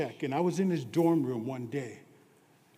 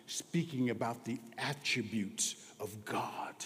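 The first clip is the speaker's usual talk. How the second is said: hushed whisper; 3 semitones lower, 7 dB quieter than usual. Acted. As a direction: draw the congregation close with a whisper. Hushed preaching line.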